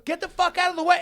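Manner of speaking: high, loud order to move; aggressive shout. Retold or imitated. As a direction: bellow it while pushing someone aside. Retold guy shoving him aside.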